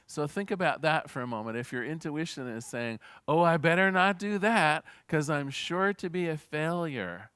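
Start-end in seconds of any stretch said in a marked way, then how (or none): 3.3-7.3 mildly acted worried inner voice, a bit louder; voice of fear. Speaker voices the ego doubting itself, mildly fearful. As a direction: lightly play the fretful ego talking. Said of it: "That's the voice of fear".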